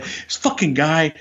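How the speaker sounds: mild mock fury building over stolen money; retold angry rant. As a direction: let the grievance build up again, half-acted. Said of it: "he starts getting all worked up again".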